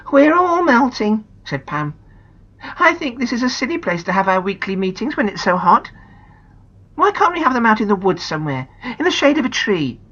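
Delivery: lightly voiced girl; young girl. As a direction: complain about the hot shed. Pam complains.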